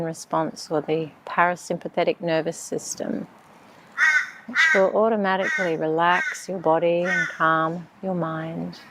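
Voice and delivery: calm, unhurried meditation voice; measured breathing-exercise instructions; guided meditation. Acted.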